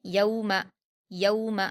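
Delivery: यौम with a smooth au and short final ma; soft waw glide. Shown as a demonstration. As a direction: glide gently through यौ in यौम, keep the end short. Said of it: "मारूफ आवाज़ के साथ नर्म पढ़ेंगे".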